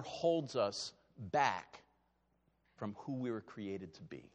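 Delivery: tender closing thought; fading softly. Real, not acted. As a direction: let it sink in quietly. Sermon line fading.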